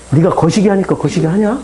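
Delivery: lightly voiced Jeolla dialect question; Jeolla-accented Jesus, understated. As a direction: ask it casually in Jeolla dialect. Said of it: "전라도 말로 제가 번역해서".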